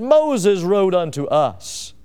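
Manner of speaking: slow, drawn-out, prideful scripture quote; oozing pride. Acted. Preacher quoting Sadducees who question Jesus, oozing pride. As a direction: stretch each word with proud self-importance. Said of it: "the oozing of the pride".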